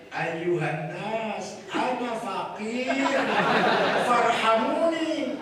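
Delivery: very slow, pitiful plea; poor cleric's pleading Arabic. Pretend. Kiai mocking the poor cleric, slow pitiful plea. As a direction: drag it out like a beggar. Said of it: "Itu pakaiannya ngomongnya gini".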